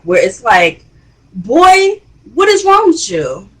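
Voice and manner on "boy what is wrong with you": much higher, pitched-up angry outburst; explosive reaction. Retold or imitated. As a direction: blow up at the boy. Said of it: "this explosive reaction from Jock".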